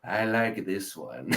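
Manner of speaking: Beerus. Retold or imitated. Smitten Beerus about Chilai.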